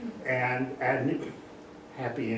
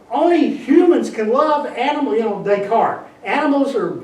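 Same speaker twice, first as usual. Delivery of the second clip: mocking Descartes; 9 semitones higher, 10 dB louder than usual.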